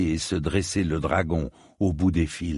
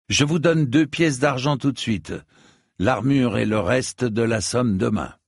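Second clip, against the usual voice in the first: higher-pitched, pressing offer; lightly voiced earnest knight; 4 semitones higher than usual. Knight offers merchant a deposit, higher earnest voice. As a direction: make a keen offer, voice pitched up.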